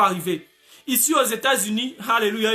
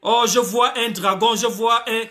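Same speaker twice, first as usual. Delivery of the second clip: slow, hammed-up awed cry of "je vois un dragon"; mock visionary prophet. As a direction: ham up a false prophet's vision, then break into a shout. (prophète imitant une vision, exagéré)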